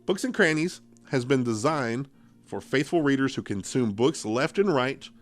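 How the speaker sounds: measured storytelling read; story narration. Acted. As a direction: read it like a spooky tale. Reads scary story aloud.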